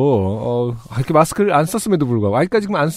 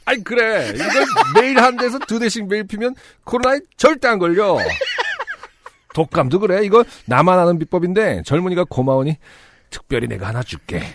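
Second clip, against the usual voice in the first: put-on higher, laughing old grandpa voice; very old man; 5 semitones higher than usual. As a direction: sell the secret like a crazy old man. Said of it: "미친 할아버지 연기를 잘해줬으면". (신난 할아버지 목소리)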